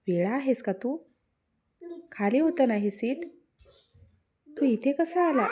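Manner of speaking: furious, rising to a high shout; demanding angrily, hands on hips; angry. A narrator's reading. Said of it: "रागातच विचारले". (रागाने ओरडून)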